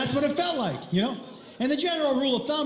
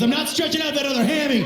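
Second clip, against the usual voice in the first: fast, raised mock protest; indignant refusal; 3 semitones higher, 4 dB louder, faster than usual. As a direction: refuse in hurried outrage. Therapist's indignant refusal, acted.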